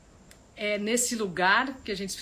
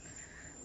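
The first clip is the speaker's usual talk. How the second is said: soft chuckle; 18 dB quieter than usual. Real, not acted. Light chuckle after own remark.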